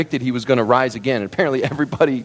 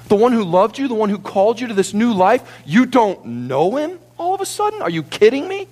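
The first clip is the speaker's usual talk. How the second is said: incredulous rebuke; 9 semitones higher than usual. Acted. Preacher voices incredulous rebuke.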